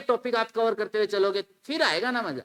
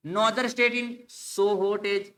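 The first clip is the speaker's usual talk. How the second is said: slow reading; much slower than usual. Shown as a demonstration. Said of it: "reads option slowly".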